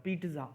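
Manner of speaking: पिज़्ज़ा said with a hard t sound, peet-za; पिज़्ज़ा with the Italian tz; pronunciation demo. Shown as a demonstration. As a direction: say पिज़्ज़ा as peetza, with a clear t. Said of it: "पिज़्ज़ा का pronunciation ऐसा होता है".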